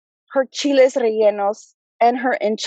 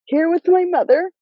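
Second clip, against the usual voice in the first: choked up; 4 semitones higher than usual. Real, not acted. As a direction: voice rising and tight, holding back tears. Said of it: "I'm getting choked up".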